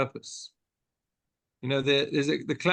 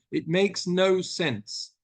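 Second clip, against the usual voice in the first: slow insistence; 3 semitones higher, much slower than usual. Retold or imitated. Philip insists, very slowly.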